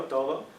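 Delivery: "todo" with the d softened toward th; "todo" said with a Spanish approximant d; Spanish soft d. Shown as a demonstration. Lecturer to students demonstrating "todo" with a soft Spanish d. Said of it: "for T O D O".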